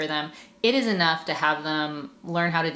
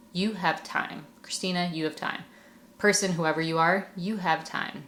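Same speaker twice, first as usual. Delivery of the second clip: gentle reassurance. Shown as a demonstration. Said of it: "I say to myself".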